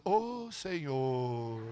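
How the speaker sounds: very slow, stretched-out exclamation; milk every syllable in comic thanks; long, lingering "oh, Lord"; drawn-out gratitude. Retold or imitated. Grateful reply to offer to pay.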